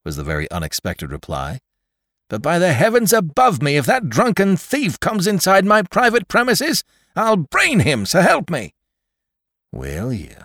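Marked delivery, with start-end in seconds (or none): 2.3-8.7 furious threat. A narrator's reading. Jones threatening Swipes. 9.7-10.4 soft, low sneering retort; drunken retort. A narrator's reading. Drunk Swipes retorting to old Jones' threat. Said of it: "retorted the pot-valiant Swipes".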